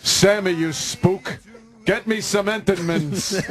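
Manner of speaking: mock crooner bossing a pal, slow start; lightly voiced swaggering old-time star; a famous crooner. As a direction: order a sidekick about in a put-on crooner voice. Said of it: "Frank Sinatra was a weekly customer".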